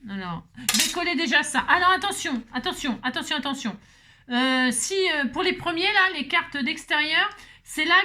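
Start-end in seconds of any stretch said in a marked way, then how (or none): 1.7-3.8 high, repeated warning to viewers; urgent heads-up. Real, not acted. Alerting viewers to next step.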